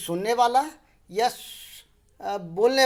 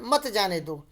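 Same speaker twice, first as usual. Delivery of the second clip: "मत" starts a fresh, falling phrase; separate second clause; slower than usual. Shown as a demonstration. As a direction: keep "मत" joined to "जाने दो". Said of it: "उसके बाद अल्प विराम लगा है".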